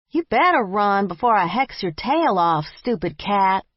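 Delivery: loud, annoyed yell after the cat. Acted. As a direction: shout it after a running cat. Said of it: "I yelled after".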